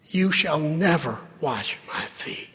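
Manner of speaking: whispered refusal. Acted. Peter's refusal quoted in hush.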